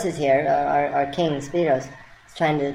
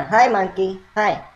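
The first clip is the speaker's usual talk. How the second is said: bright, friendly hello to a monkey; gentle, sing-song welcome; kindly greeting; 2 semitones higher than usual. Retold or imitated. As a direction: greet him sweetly, like a children's host. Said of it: "we said it in a kind way".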